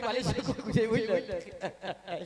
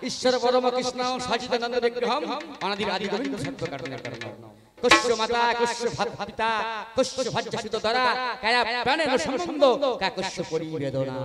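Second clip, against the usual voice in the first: scripture recitation; 4 dB louder than usual. Acted. Recites a devotional verse.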